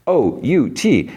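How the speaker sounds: high, slow sing-out of letters; kid spelling. Retold or imitated. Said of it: "Ray, spells".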